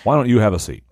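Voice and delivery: lightly imitated TV host; mock-polite invitation to a suspect; composed host catchphrase, hammed up a little; Chris Hansen. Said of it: "Hello, I'm Chris Hansen".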